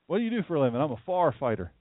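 acted exchange in downstate Delaware country talk; downstate Delaware accent. Shown as a demonstration. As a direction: play a downstate Delaware local, "fire" as "far". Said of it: "as we'd say downstate Delaware".

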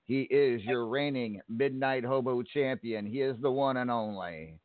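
big ring-announcer build-up. Acted. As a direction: introduce the champion like a ring announcer. Host introduces caller, announcer.

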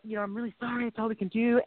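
softened, earnest mock apology; solemn. Church caller apologizing to a comedian, imitated solemnly. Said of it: "she said it very solemnly".

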